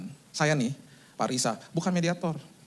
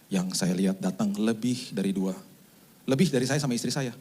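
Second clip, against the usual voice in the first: sick uncle; 7 semitones lower than usual. Retold or imitated. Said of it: "si Om ngomong gini".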